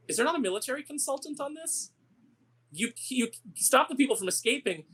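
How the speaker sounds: exasperated rant. Retold or imitated. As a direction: rail at the movie's tactics, voice up high.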